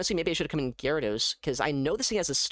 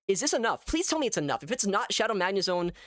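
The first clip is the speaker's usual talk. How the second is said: high, urgent plea; tense, rising hope in a higher voice; anxious pleading; 5 semitones higher than usual. Real, not acted. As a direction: beg for it to be enough. Pleading with the game to win.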